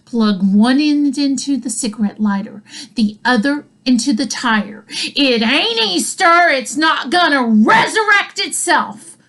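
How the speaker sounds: mock exasperation through gritted teeth; gritted-out order. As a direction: imitate a mom whose last nerve just snapped. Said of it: "she grits out".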